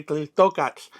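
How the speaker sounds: Tliltocatl slowly, stress on TO, voiceless tl puff at the end; careful Tliltocatl with a puffed tl ending; corrected pronunciation. Shown as a demonstration. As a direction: lean on TO in Tliltocatl and puff the final tl. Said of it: "So that's why I say".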